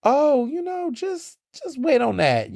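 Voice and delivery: high, slow, sing-song tease; a sly, knowing friend holding back a surprise; coy teasing friend. Retold or imitated. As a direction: dangle the secret playfully. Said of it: "I would just be like".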